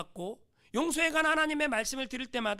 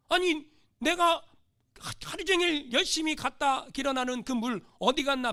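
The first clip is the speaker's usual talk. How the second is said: raised, louder acted protest; indignant disbelief; 4 semitones higher, 4 dB louder than usual. Preacher voicing a farmer who lost his water, indignant. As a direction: demand to know where it went.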